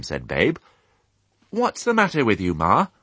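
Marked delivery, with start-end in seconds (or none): 1.5-2.9 piglet voice. Acted. Piglet asks sheep.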